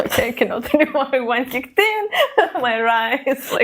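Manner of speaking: tipsy giggly rambling; slurring a little between laughs. Real, not acted. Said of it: "I'm so drunk right now".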